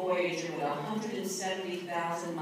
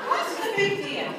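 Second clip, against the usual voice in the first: husband's shrug; 14 semitones higher, 5 dB louder than usual. Retold or imitated. Husband voiced, retold.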